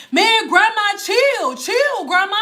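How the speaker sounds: mock protest. Dude protesting to grandma, retold.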